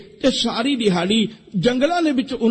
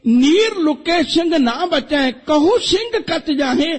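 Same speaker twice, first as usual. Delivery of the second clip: slow, raised-pitch recital of verse; verse recitation; 4 semitones higher, slower than usual. Acted. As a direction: recite the couplet slowly, drawing out the words. Recites a verse before explaining it.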